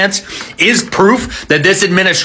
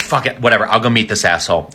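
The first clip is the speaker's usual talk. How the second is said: much lower and softer, fed up; weary old Pope; 10 semitones lower, 4 dB quieter, faster than usual. Acted. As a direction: mutter it like a tired old man.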